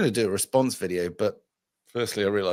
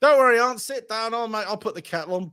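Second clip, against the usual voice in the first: mock reassurance; 10 semitones higher, 4 dB louder than usual. Imagined voice of the bomber.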